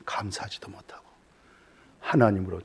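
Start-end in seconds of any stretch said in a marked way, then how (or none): 0.0-1.0 hushed whispered rebuke; a sudden whisper to the congregation. Acted. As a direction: breathe it out, barely audible. Whispered lament in sermon.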